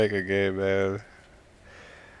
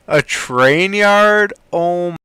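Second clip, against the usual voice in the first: surprised; 5 semitones higher, much slower than usual. Real, not acted. Spots a model, pleasantly surprised.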